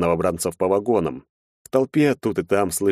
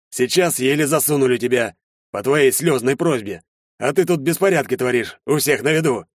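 stern major; 7 semitones higher than usual. A narrator's reading. Major threatens to reject him.

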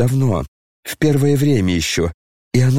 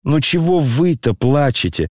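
tearful pleading; 3 semitones higher than usual. Acted. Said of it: "Коля сам плакал".

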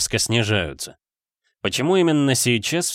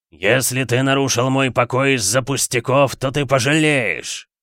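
menacing demon voice. Acted. Demon threatens the magician. (угрожающий голос демона)

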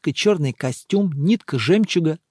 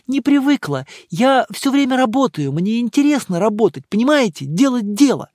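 higher female voice, a bit tipsy; tipsy Emma; 6 semitones higher than usual. A narrator's reading. Tipsy Emma explaining her love of work to the monk. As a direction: explain earnestly, slightly drunk.

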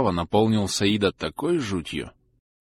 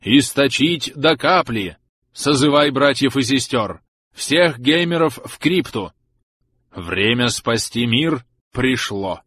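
solemn proclamation; 3 semitones higher, slower than usual. Acted. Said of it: "торжественно прогремел голос старца".

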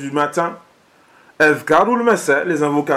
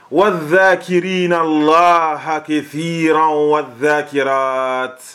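Quran recitation; faster than usual. Acted. Recites a Quran verse in Arabic.

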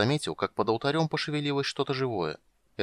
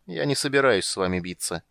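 lazy. Acted. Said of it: "Драконица лениво".

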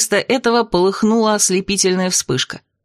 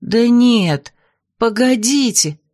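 exclaiming; 3 semitones higher, much slower than usual. A narrator's reading. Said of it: "воскликнула Василиса".

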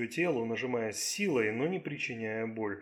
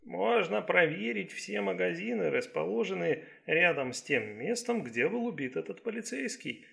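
lightly voiced doctor, higher pitched; Chinese doctor, suggesting; 5 semitones higher than usual. Doctor suggesting shops near the murder scene, mildly helpful. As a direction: offer it as a careful suggestion.

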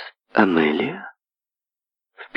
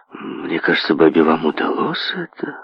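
unsure; 3 semitones lower, 3 dB quieter than usual. Acted. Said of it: "неуверенно заметил мистер Мэдж".

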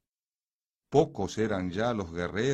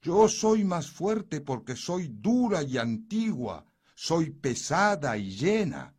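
loud, high proud stone; 10 semitones higher, 6 dB louder than usual. A narrator's reading. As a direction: boast as the ancient stone. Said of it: "dijo la piedra".

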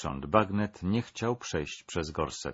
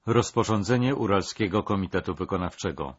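official decree read aloud; 3 dB louder than usual. Acted. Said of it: "zaczął odczytywać na głos rozkaz".

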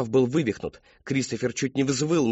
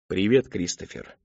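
lower, slow eerie greeting; eerie father's voice; 5 semitones lower than usual. Acted. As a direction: greet him slowly like his father. A voice like his father's.

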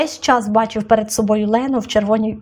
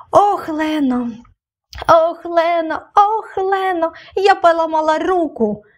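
high angry wail building from a whispered start; angry cry; 7 semitones higher, slower than usual. A narrator's reading. Injured girl shouting up about her arm, rising angry wail. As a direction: rage at the pain, rising each time. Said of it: "розлючено крикнула вона".

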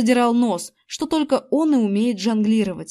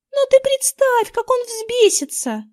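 put-on much higher, pleading girl's voice; plaintive girl; 13 semitones higher than usual. A narrator's reading. Girl pleading with the boy not to act, plaintive high voice. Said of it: "жалобно проговорила Эрин".

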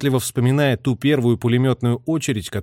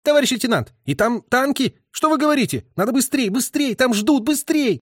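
much higher, frantic and rushed; panicked urging; 12 semitones higher than usual. A narrator's reading. Messenger urging the lieutenant to hurry, frantic. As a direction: beg them to hurry in panic.

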